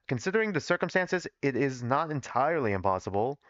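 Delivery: put-on Southern-accented character read; measured line in a Southern accent; thick Southern accent. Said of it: "we gotta make him less southern".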